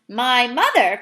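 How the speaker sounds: a loud, startled cry; indignant giant exclaiming. Acted. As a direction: cry it out in disbelief. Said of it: "cried the B F G".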